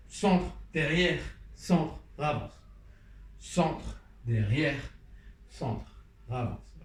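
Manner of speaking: slow, drawn-out step calls; slow counting call. Shown as a demonstration. Teacher slowly calling out the steps to dancers. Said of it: "On refait tout doucement".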